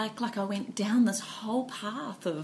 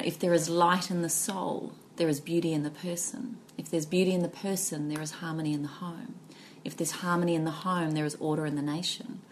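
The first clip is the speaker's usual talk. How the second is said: reciting a proverb; 2 semitones lower than usual. Acted. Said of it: "It's just a Chinese proverb".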